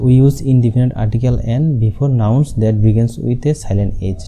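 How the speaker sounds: slow, word-by-word rule reading; slow dictation. Shown as a demonstration. Teacher dictating the silent H rule slowly. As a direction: dictate it so students can write. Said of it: "আহ".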